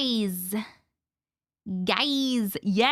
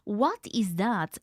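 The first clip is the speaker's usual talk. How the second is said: whisper; 4 semitones lower, slower than usual. Real, not acted. Whispers at a sound.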